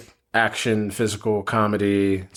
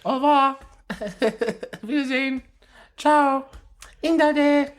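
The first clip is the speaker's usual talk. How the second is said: silly high voice. Acted.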